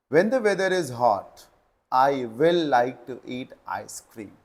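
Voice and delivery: very slow, word by word; slow dictation. Shown as a demonstration. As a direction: read the question out to students. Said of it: "reading the next question". (प्रश्न धीमे पढ़ना)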